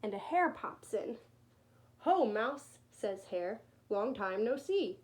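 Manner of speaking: storybook read-aloud; reading to children. A narrator's reading. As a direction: read it gently to little ones. Reads picture book to children.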